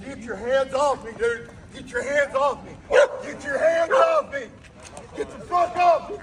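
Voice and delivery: from firm to a sharp yell; anger rising with each repeat; calm turning angry. Real, not acted. Man pushing officers away.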